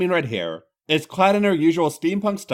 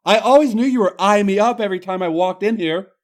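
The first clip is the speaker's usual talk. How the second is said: high, loud Irish protest; Irish woman, indignant; 5 semitones higher, 5 dB louder than usual. Acted. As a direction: scoff in a broad Irish voice. Becky's voice continues.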